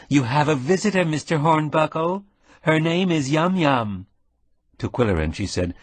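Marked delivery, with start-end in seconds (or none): 0.1-2.2 raised voice for a hard-of-hearing patient; loud. A narrator's reading. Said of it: "The canary said loudly". 2.6-4.0 put-on loud and high for the deaf old man. A narrator's reading. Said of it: "The canary said loudly".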